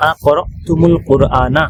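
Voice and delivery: slow করতুমুল with মিম linked by dhamma into আল; joined Arabic reading. Shown as a demonstration. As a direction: read আ করতুমুল কোরআনা slowly as one flow. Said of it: "মিলিয়ে পড়লে কি হবে".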